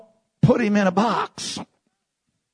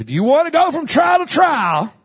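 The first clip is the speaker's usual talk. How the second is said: louder retake; 11 semitones higher, 3 dB louder than usual. Shown as a demonstration. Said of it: "I'll say it like this".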